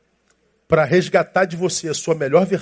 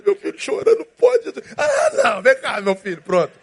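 high, hammed-up panicking parent; mock a parent who can't bear the crying; anguished parent; 8 semitones higher than usual. Pastor mocking parents fretting over a crying baby. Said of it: "pais não conseguem".

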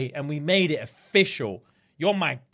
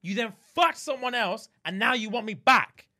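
hurt accusation; 5 semitones higher than usual. Acted. Acting out the jilted man's accusation.

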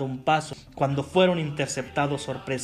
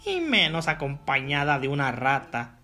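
sneering gloating dark voice. Acted. Evil wizard taunting the couple.

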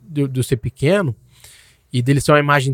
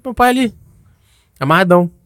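put-on pitched up like a thrilled little boy; excited child voice; 9 semitones higher than usual. Son to mother at gas station, light excited child voice. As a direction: play the kid spotting dad on TV. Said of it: "Criança, eu falei".

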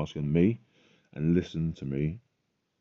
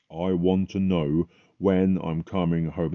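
emotional plea; 4 dB louder, slower than usual. Retold or imitated. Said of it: "I got very emotional about it".

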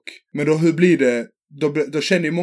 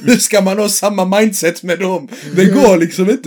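exasperated; 3 semitones higher, 4 dB louder, slower than usual. Retold or imitated. Laughs, exasperated quote.

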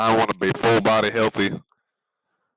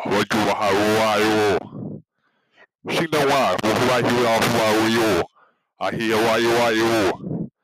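mock Chinese gibberish; fake Mandarin. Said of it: "Let me practice right now, some Mandarin".

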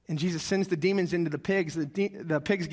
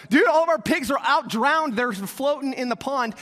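higher, louder panicked blurt; panicked herders; 4 semitones higher, 5 dB louder than usual. Retold or imitated. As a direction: sound like a herder freaking out. Panicked pig herders quoted.

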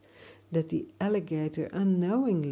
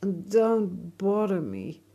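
irritated; 5 dB louder than usual. Acted. Irritated alligator brushing boy off.

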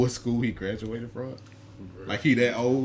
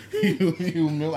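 higher, slow laughing echo; echoing a rapper; 6 semitones higher than usual. Retold or imitated. Friend echoes a rapper's quote, laughing. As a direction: repeat the rapper's line, amused. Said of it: "I can hear him".

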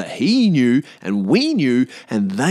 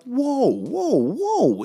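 exaggerated whoa; 12 semitones higher, much slower than usual. Real, not acted. Pulling back an overheated accusation.

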